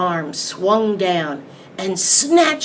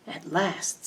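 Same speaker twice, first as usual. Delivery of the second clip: quiet; 7 dB quieter than usual. Acted. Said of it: "said the monster".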